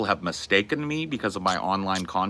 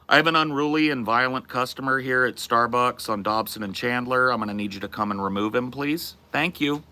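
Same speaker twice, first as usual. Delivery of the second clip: retold phone report; 4 semitones higher than usual. Retold phone call to police.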